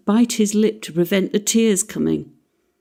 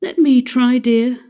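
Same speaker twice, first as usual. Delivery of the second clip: placid; 5 semitones higher, 4 dB louder than usual. Acted. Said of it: "Missus Darling was placid".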